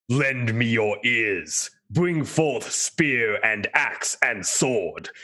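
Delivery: rally the knights with a booming, stately call; bellowing rallying cry. Acted. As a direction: commander summoning troops, each word stretched out. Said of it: "like, bellowing echo".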